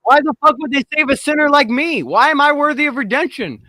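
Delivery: high-pitched disbelief at being saved; incredulous. Real, not acted. Sinner questioning his own worth, high-pitched and incredulous. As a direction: ask in baffled disbelief, pitch up. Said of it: "I'm surprised that".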